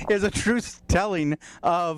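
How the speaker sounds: out of breath from laughing; wheezy, breathless from laughter; wheezing. Real, not acted. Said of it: "Bouncing, wheezing".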